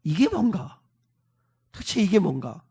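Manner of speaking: softly muttered, disheartened questioning; hurt bewilderment. Acted. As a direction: ask yourself quietly, wounded and baffled. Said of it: "모세의 마음이 확 상합니다".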